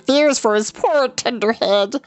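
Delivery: a terrified beast pleading not to go; frightened Gurgi. A narrator's reading.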